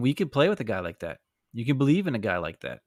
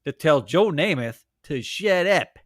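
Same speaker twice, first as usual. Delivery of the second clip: mock outraged fans; 3 semitones higher, 3 dB louder than usual. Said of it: "the Jets fans are like".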